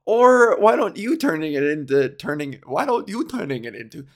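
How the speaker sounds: a hint of a mock Russian accent; lightly put-on Russian broken English. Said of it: "now I'm talking like a Russian".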